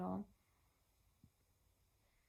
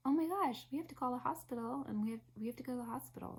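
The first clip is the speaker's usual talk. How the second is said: panicked rush; 4 semitones higher, 3 dB louder, faster than usual. Retold or imitated. Realizing labor is moving fast.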